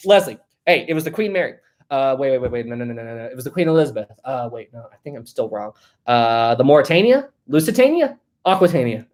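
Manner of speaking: acted-out fumbling, muttered second-guessing; hesitant joke delivery ending in questioning guesses; mock confusion. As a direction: play someone guessing wrong and correcting themselves. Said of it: "let me do this".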